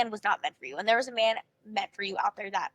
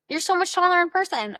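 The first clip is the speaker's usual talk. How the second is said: high, bright excited compliment; gushing compliment; 7 semitones higher, 4 dB louder than usual. Shown as a demonstration. A dating coach demonstrating a compliment for the date, gushing. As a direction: gush over his outfit. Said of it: "Here are some of my go-to compliments".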